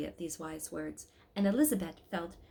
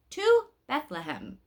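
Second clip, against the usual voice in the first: slow, loud, raised rallying cry; loud slow call; 6 semitones higher, 7 dB louder, slower than usual. Acted. Shepherd Joshua rallying the pilgrims, slow loud call. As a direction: plant each word like the crook. Shepherd calls out striking crook.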